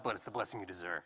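a light put-on superhero voice; mock-dramatic hero line; Batman impression. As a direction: brood it out like a caped vigilante. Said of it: "that's Batman, not Jesus".

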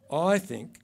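put-on failed New Zealand accent. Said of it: "I can't do her accent".

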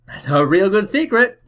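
a touch of Cockney, high and eager; Cockney accent. Acted. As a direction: sell the secret like a Cockney kid. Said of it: "my best Cockney accent".

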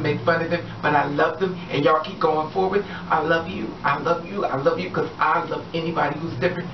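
usual speaking voice

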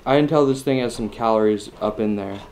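speaking between bites; chewing while talking. Real, not acted. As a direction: mouth partly full. Seen 0: Bit pork at -5, mouth still working food while speaking.

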